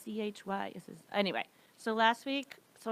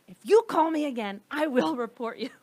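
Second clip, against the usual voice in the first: angry threat; 3 semitones higher, 5 dB louder than usual. Retold or imitated. Angry call on the treadmill.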